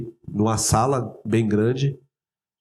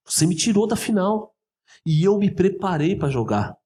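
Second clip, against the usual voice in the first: raised, heated voice, pitch climbing; confronting the coach, heated and rising; heated retold protest; 4 semitones higher than usual. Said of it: "eu tava exaltado".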